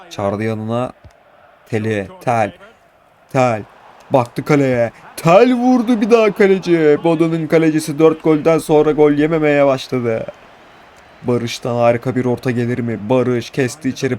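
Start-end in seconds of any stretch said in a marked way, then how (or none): 5.2-10.3 excited commentary. Real, not acted. Shot commentary.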